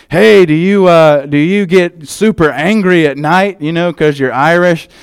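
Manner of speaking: hammed-up curious stranger asking a silly question; mock nosy questioner. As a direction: act out a stranger fishing for an Irish cliché. People quizzing him about Irish stereotypes.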